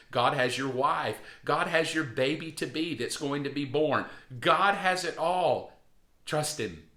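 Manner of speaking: steady preacher's litany; preaching reassurance. Acted. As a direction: lay each worry at God's feet, firmly.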